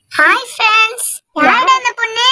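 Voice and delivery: put-on new girl saying hi shyly; girl's voice. New girl greets friends.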